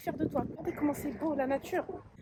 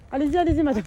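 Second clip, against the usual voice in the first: raised, louder call to a passer-by; calling out politely; 5 semitones higher, 8 dB louder, faster than usual. Real, not acted. Runner waving a passing lady through, called out loudly.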